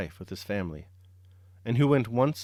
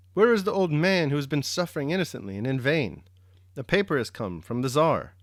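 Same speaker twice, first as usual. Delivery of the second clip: put-on higher, louder call for the old man; 4 semitones higher, 4 dB louder than usual. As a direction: call out across the camp. Officials calling out for old man.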